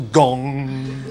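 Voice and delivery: "gong" held on a ringing hum; long humming "ng" on "gong"; gong imitation. Shown as a demonstration. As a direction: let "gong" resonate like the struck instrument. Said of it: "which is another onomatopoeic word".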